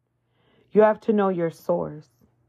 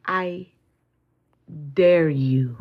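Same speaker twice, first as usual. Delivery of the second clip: defiant challenge; much slower than usual. Acted. Challenging the enemy.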